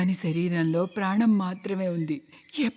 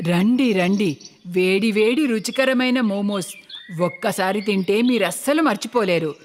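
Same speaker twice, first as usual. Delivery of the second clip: vendor calling out; 3 dB louder than usual. Acted.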